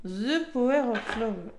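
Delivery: slow, put-on English accent. Shown as a demonstration. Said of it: "Je prends l'accent anglais". (accent anglais appuyé)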